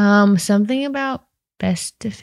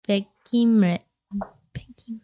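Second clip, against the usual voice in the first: whispered try; 6 dB quieter than usual. Real, not acted. Sounding out the word to herself.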